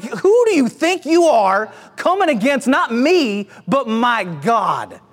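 mock-affronted challenge, slowing on the last line; indignant. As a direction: take offense on God's behalf. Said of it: "You can see the indig".

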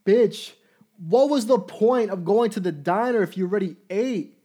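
loud, high, indignant rant; exasperated outburst. Real, not acted. Ranting at the listener about his date's logic, exasperated. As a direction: blow up at her in disbelief. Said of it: "I'm sounding like a dickhead".

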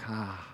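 very soft, low exhaled "ah"; relieved sigh. Retold or imitated. Preacher recalls being promised a blessing, soft relieved sigh. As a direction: breathe out a hushed, low "ah".

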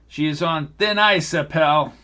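a hard threat to the father; threatening agent. Acted.

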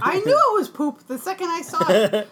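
loud, high, indignant vindication; vehement insistence. Real, not acted. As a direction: swear to it loudly. Insisting she knew it was poop.

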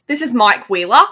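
demonstrated Australian accent. Shown as a demonstration. Podcaster showing co-host how to do it, Australian accent. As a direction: show how the Aussie line goes. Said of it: "you have a good Australian accent".

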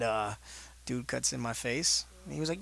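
ordinary talk

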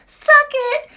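high, loud mocking shout; taunting yell. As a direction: bellow it like a crotch-chop taunt. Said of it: "he leans his fucking crotch in the air and goes".

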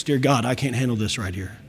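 low humbled prayer. Acted. A believer admitting defeat to God, low and soft. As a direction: sink the voice, beaten and small.

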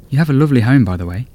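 put-on a nervous young estate agent; young woman voice. Gracie voiced in story.

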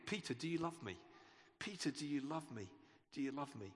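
tender question, fading. Retold or imitated. Jesus gently asking Peter again and again, tender and fading. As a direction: ask it quietly, pleading, fading away.

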